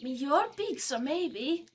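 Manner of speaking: high, timid little creature; tiny creature voice. Acted. Creature in dialogue.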